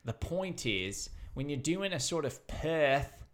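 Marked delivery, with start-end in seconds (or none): 2.5-3.2 Perth said as PEHTH, drawn wide, no R; Australian accent. Shown as a demonstration. Comedian teaching friends an Aussie accent, Australian accent. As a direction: do Perth with a broad Aussie vowel. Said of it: "You just".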